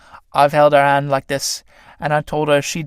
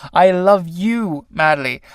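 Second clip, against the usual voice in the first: slow ardent declaration; 3 semitones higher, slower than usual. Acted. Otto declares love.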